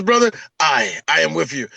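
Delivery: solemn pledge in a mock Highland accent; lightly voiced Scottish Highlander. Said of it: "what's that accent? It's Highlander accent".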